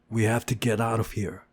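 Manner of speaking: stubborn repeat, pushing on WE. Acted. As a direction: dig in and say it again. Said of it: "I repeated stubbornly".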